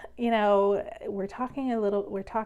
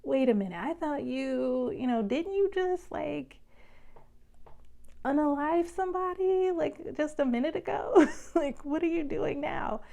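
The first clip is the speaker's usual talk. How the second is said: a touch of exasperated friar; 7 semitones higher than usual. Retold or imitated. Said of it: "he's like".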